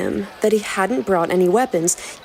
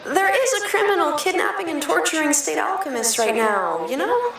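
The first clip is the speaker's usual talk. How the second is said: worried Al; 9 semitones higher than usual. Acted. Narrator voicing Al warning his brother, high and worried. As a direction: plead gently, a little anxious.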